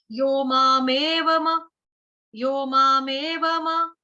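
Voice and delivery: slow, with म said as a full syllable, "मामेव म" with the vowel kept; don't cut the म short, say it whole; full म at the end. Shown as a demonstration. Teacher models the full म for her students. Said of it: "तो हमको कैसे कहना है".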